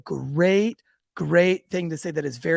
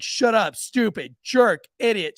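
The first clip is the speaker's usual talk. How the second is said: put-on milder, higher-pitched replay of a kid; son's retold insults; 4 semitones higher, slower than usual. Retelling the son's insults, mildly imitated blurting. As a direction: list the insults with a light punch. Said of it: "he was like".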